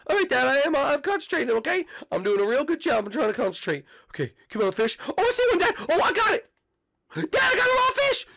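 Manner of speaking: high, whiny boy cartoon voice; cartoon boy whining at his dad; Bart voice. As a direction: play the bratty kid son. Plays Bart for many lines.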